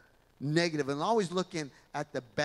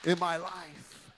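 louder, higher, joyful resolve; eager congregant's exclamation, louder; excited declaration; 4 semitones higher, 6 dB louder than usual. Acted. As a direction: proclaim it like you mean it. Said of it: "You should say".

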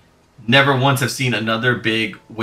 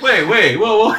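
Barrett impression; 8 semitones higher, 4 dB louder than usual. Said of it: "Barrett's like".

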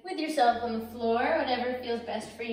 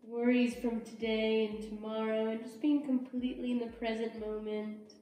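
unhurried, soothing yoga teacher voice; guided relaxation; 6 dB quieter than usual. Real, not acted. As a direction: ease them into rest, leaving long pauses. Leads restful child's pose.

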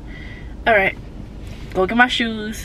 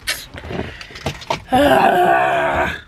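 long breathy groan of exasperation; frustrated groan. Real, not acted. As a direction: let out a drawn-out exasperated sigh. Frustrated at forgetting shoes.

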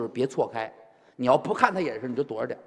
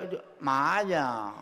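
Beijing accent; slower than usual. Shown as a demonstration. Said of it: "我们就是省字儿".

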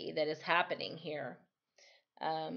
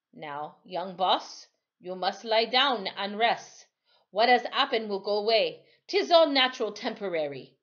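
gentle reassurance; 3 semitones higher, 6 dB louder than usual. Acted. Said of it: "He said very gently".

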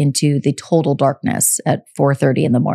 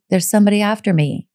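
steady, even, fast repeat; understated calm statement; calm and matter-of-fact; 3 semitones higher, faster than usual. Retold or imitated. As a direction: say it calmly like it's routine. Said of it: "somewhat calmly and quietly".

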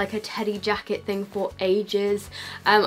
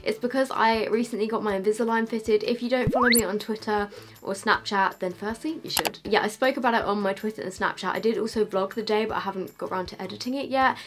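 talking with a slight lisp. Real, not acted. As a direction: lisp from new aligners. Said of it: "I do have a little bit of a lisp".

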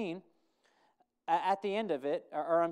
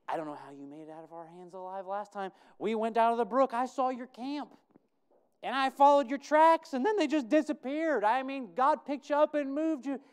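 rising to a loud, high, alarmed plea; acted frightened servant; 7 semitones higher, 7 dB louder than usual. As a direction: plead with the prophet, louder and louder. Preacher voices Obadiah's fearful complaint.

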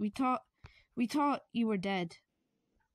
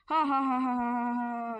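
mock laugh; 2 semitones higher, 4 dB louder than usual. Forced laugh at a joke.

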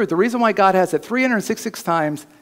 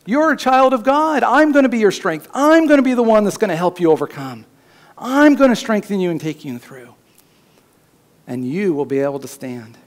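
God reassuring; 5 semitones higher than usual. Acted. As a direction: speak as God lifting up a scared prophet. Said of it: "But then God said".

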